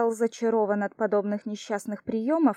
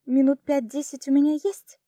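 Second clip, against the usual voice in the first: satisfied; 4 semitones higher, 6 dB louder than usual. A narrator's reading. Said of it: "с удовлетворением заявила она".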